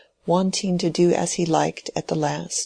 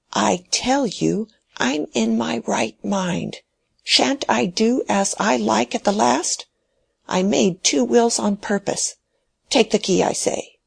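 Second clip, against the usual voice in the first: put-on an old man clinging to his will, pressing his point; stubborn dying old man; 6 semitones higher than usual. Dying old man ordering Mary to take the key, high and insistent.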